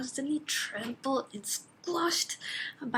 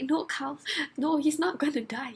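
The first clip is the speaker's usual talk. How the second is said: raised, emphatic objection; exasperated protest; 4 semitones higher, 3 dB louder than usual. Retold or imitated. Reader correcting Carl about Dorian's fate, exasperated. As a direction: argue urgently with a clueless character. Arguing with a character.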